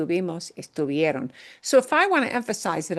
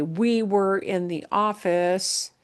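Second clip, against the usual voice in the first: slow example sentence; slower than usual. Shown as a demonstration. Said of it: "if I just wanna say".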